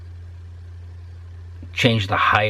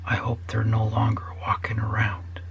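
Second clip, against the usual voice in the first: dark whisper; 6 dB quieter than usual. Real, not acted. Dark wish about toddlers.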